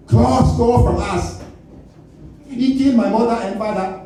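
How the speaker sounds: put-on angry African accent, high and deliberate; hammed-up indignant African-accented speech; W'Kabi. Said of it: "He was mad as hell".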